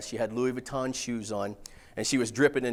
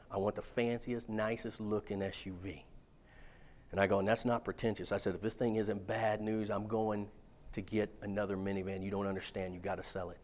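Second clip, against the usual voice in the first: hushed plea; 5 semitones lower, 10 dB quieter than usual. Retold or imitated. Quietly pleading with car dealer.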